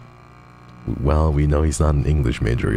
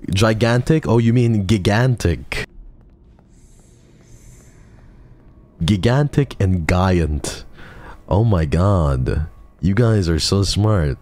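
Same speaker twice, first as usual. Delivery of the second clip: sarcastic mockery; 5 semitones higher than usual. Mocking chat's big words.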